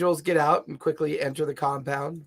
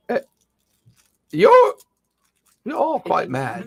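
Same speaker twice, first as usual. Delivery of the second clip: put-on old man voice; 11 semitones higher, 9 dB louder, slower than usual. Grumbles voice, slow.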